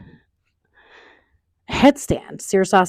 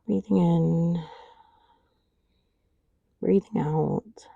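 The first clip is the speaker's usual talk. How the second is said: soft breathy whisper, slow; whispered breath cue; 7 dB quieter, slower than usual. Shown as a demonstration.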